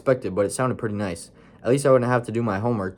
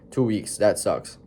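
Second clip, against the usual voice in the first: certain; slower than usual. Shown as a demonstration. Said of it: "trying to be as certain".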